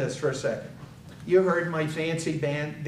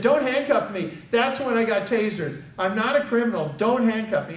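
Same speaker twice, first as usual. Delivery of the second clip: higher-pitched retold objection; mildly agitated plea; protesting; 5 semitones higher than usual. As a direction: object urgently to being restrained. Son protests to officer, retold.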